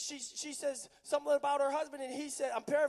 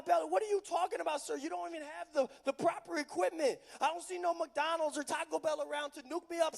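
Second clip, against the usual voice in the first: sassy Samaritan woman; 4 semitones higher, 4 dB louder than usual. Acted. Preacher voicing the Samaritan woman scoffing at Jesus, incredulous and sassy. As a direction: play her scoffing at the stranger with no bucket.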